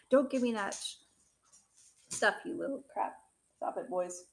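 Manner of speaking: real loud telling-off; scolding the dogs. Real, not acted. Reader breaks off to yell at fighting dogs, real scolding. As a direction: bark at the dogs to stop. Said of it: "Sorry, my dogs are fighting".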